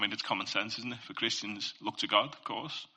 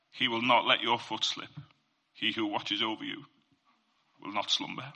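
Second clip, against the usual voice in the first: scripture reading; 2 semitones higher, 5 dB louder than usual. Real, not acted. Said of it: "I'll read it to you".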